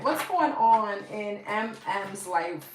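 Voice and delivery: slow, drawn-out Brooklyn accent. Real, not acted. Reader asking the cards about a client's life, Brooklyn accent. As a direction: let a Brooklyn accent slip out, stretched slow. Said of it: "my whole Brooklyn accent came out".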